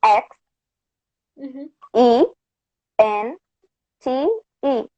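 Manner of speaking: letter by letter, pausing between each; spelling it out. Shown as a demonstration. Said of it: "Can you spell it?".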